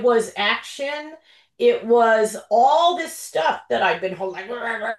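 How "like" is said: mock garbled grumbling noise; imitated pent-up grumble. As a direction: act out bottled-up muttering as a wordless noise.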